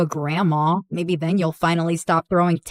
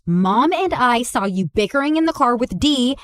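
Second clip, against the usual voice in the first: normal talking voice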